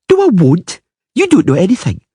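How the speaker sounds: put-on high, huffy little girl; a sulky girl talking back; pouty child. A narrator's reading. Ciri sulking.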